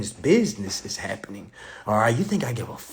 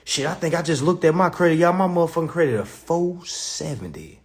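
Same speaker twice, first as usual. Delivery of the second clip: shocked outburst; 6 semitones higher, 4 dB louder than usual. Real, not acted. Shocked at own credit score.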